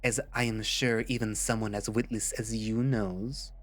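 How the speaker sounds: put-on bitter villain, lightly French-accented; bad French accent. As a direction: pour out old grievances in a put-on French accent. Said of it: "my most horrible attempt at making a French accent".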